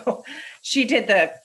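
a light sniffy sneer; snooty critic. Retold or imitated. Imagined critics judging her Shakespeare, mock dismissive. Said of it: "people be like".

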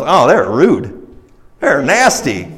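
drawn-out acted complaint; disgruntled traveler. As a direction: grumble slowly as an offended traveler.

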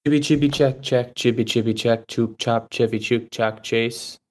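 goofy mic check chant; silly sound check. Pretend. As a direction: rattle off nonsense check syllables. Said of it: "I'm doing Chevy Chase sound check".

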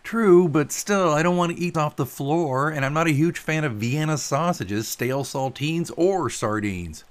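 picky, whining objection, slowing down; grumbling Pilot. Acted. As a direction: list each food with reluctance.

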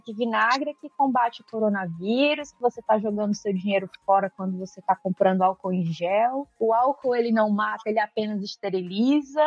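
mildly mock expert tone; retold confident authority. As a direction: retell his claims with assured, low-pitched authority. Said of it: "com uma propriedade, com um tom de voz".

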